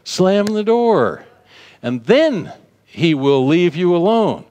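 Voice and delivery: preacher's forceful no; firm command. Shown as a demonstration. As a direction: slam the door with your voice. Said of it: "it's like".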